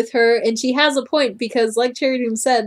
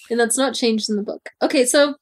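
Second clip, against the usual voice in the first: ordinary talk, nothing marked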